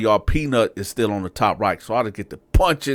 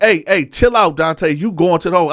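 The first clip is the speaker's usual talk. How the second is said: high, loud barked warning to a cell; sergeant yelling; 7 semitones higher, 4 dB louder than usual. Retold or imitated. Sergeant warning Dante he's going to the hole, loud and high. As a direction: play the sergeant hollering at an inmate. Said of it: "So Sarge like".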